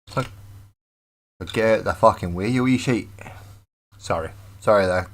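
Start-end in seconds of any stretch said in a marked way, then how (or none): 1.4-3.1 put-on Scottish accent. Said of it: "didn't require any form of accent".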